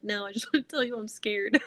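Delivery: retold line breaking into laughter; amused, laughter breaking in; laughing confession. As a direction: laugh through a mock-scared admission.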